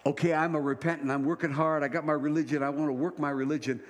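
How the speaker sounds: puffed-up voice of a self-made believer; mock self-righteous believer. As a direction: brag about your own works. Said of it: "this idea of".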